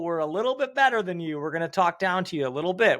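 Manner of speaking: mock-snooty fan talking down to a rival. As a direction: act slightly superior, voice lifted. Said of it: "that slight little ... talk down".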